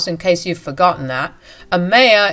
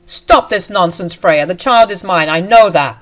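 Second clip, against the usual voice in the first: angry scolding; 5 dB louder than usual. Acted. Husband and mistress berate wife.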